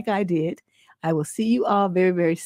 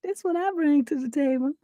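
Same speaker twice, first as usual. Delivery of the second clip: mock self-assured; 6 semitones higher, 4 dB quieter than usual. Host voices the woman answering what she brings, mock self-assured. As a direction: imitate a woman sure of what she offers. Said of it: "look on her face like".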